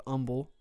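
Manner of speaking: the Texas town "Humble" with no H; local silent H. Shown as a demonstration. Host naming a Texas town, H dropped from "Humble". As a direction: say "Humble" as "Umble". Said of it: "pronounced Humble".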